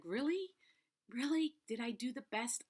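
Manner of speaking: high, disbelieving "really?"; surprised. Retold or imitated. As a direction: ask it in happy disbelief.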